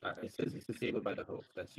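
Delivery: muffled, garbled bad-mic voice; like talking from under water; underwater. Real, not acted. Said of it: "it's still the same".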